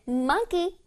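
"monkey" with a distinct first syllable MON. Shown as a demonstration. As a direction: articulate the MON of "monkey" clearly. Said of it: "뚜렷하게 M O N 부분을 발음해주는".

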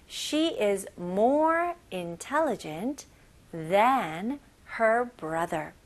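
drawn out, phrase by phrase; very slow chunked reading. Shown as a demonstration. Teacher slowly repeats the second sentence for learners. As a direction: stretch each phrase out slowly. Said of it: "그녀는 남동생보다 머리가 더 똑똑해".

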